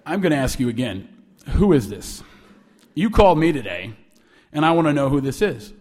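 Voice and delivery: low, controlled anger; pissed and stern. Retold or imitated. Angry man questioning the student caller, pissed and stern. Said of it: "He sounded pissed".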